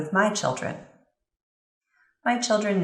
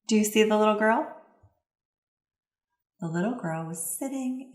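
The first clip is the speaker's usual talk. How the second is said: put-on reading to children. Shown as a demonstration. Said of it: "I'll provide an example".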